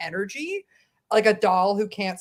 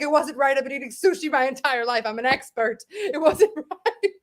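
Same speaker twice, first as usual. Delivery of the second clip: mom impression; 3 semitones higher than usual. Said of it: "do more impersonations of your mom".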